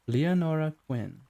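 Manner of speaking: slow West Country voice, lightly done; West Country accent. Acted. Client introducing herself, in a light West Country accent. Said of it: "like a West Country accent".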